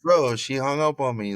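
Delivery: laughing. Real, not acted. Laughing retelling mom hanging up.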